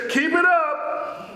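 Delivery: God warning an enemy, as a preacher voices it. Retold or imitated. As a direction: dare them to keep going. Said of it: "God tells the enemy".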